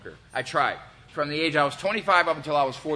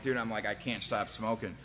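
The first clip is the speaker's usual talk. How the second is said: tearful plea; 5 semitones lower, 9 dB quieter than usual. Retold or imitated. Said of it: "tears starting to come out".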